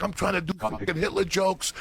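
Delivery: high-pitched mock complaint; imitated young comic. Young Israeli comic explaining his act, in a high imitated voice.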